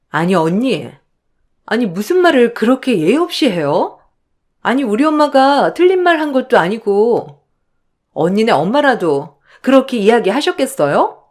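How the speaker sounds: indignant sister-in-law, voice rising; 따지는 시누이. Acted. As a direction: take mother's side, scolding the in-law. (발끈해서 따지는 시누이 말투)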